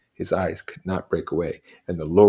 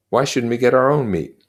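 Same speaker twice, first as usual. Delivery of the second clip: louder, higher Ralph, stress on our; Ralph, indignant; 7 semitones higher, 9 dB louder than usual. Acted. Ralph challenging the twins, indignant. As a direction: push back hard on our.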